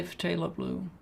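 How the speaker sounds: phthalo as fuh-TAY-lo, stressed TAY; pronounced fuh-TAY-lo. Shown as a demonstration. Painter giving their own pronunciation, fuh-TAY-lo. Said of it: "I say".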